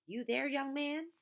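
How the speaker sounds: slow, loud, high call; woman calling for the boy. A narrator's reading. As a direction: call across the yard. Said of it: "someone calling".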